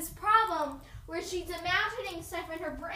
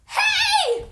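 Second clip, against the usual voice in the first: loud, high playful shout; drawn-out, giggly mock threat; mock battle threat; 5 semitones higher, 9 dB louder, much slower than usual. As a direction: shout a pretend attack, half laughing. Playful mock attack with pretend knife.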